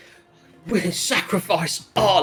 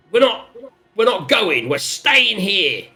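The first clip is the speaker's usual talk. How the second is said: defiant crowd voice; 4 semitones higher, slower than usual. Acted. Crowd refusing to leave.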